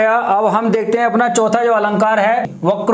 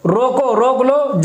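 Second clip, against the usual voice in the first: "रोको" set apart, then "रोक लो" as a slow restatement; stop after रोको; slower than usual. Shown as a demonstration. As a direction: slowly separate रोको from रोक लो. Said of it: "वो कहना ये चाह".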